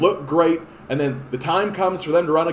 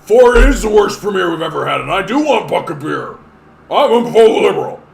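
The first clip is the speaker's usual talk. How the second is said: eager voter; 4 semitones higher, 10 dB louder than usual. Retold or imitated. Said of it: "People are gonna be like".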